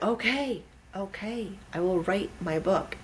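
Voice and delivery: high, placating mock surrender; giving in. Writer yielding to the insistent universe, high-voiced surrender. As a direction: back down after being yelled at.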